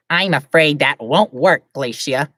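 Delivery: slow, lightly voiced angel; a slow solemn angel, lightly done; guardian angel voice. Angel breaking bad news to Glacia, slow solemn. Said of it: "What was his voice?".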